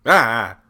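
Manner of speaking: loud wordless outburst; worked-up yell. Real, not acted. Host flustered by what women like, exclaiming. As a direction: let out a sudden loud "ah".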